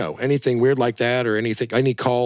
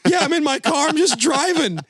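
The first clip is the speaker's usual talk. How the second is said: high, showy phone-bragging voice; proud to be driving on a car phone; early cell phone caller. Retold or imitated. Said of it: "that Seinfeld episode".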